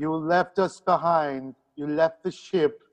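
lightly voiced aggrieved counselor; mild mock reproach, in character; Deanna Troi. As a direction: air a grievance in the counselor's voice. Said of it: "I am Deanna Troi".

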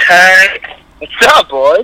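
phone speaker voice; on speakerphone. Real, not acted. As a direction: sounds through a phone. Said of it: "you're on speakerphone".

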